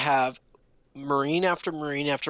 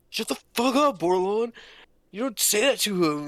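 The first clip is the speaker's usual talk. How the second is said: mock angry snap; 7 semitones higher than usual. Recruit telling Bordelon off for his friend: mock angry snap. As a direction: play the buddy defending his friend, half-serious. Retold recruit snapping at him.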